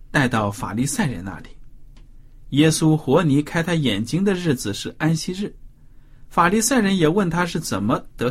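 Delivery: scripture reading. Acted. Reading the Bible passage aloud to a study partner, measured scripture reading.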